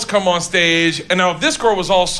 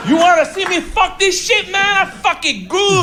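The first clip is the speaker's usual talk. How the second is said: higher-pitched, over-eager mock performer; creepy showman; 9 semitones higher than usual. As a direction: imitate a creepy guy hyping up his act. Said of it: "this is exactly what it feels like".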